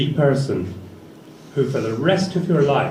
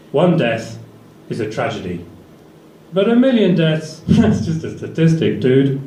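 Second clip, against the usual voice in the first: Stalin quote with dude; 3 semitones higher than usual. Retold or imitated. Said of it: "Joseph Stalin, right?".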